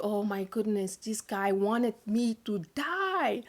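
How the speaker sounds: soft, stunned inner thought; hushed realization. Retold or imitated. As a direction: drop the voice to a private, dawning realization. Retold silent thought of horror.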